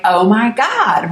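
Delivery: slow, drawn-out stunned disbelief. Retold or imitated. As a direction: mouth hanging open in shock. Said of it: "my mouth flies open like".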